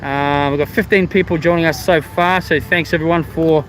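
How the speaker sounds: speaking through a face mask; muffled, mask over mouth. Real, not acted. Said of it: "Sorry if I'm a bit muffled".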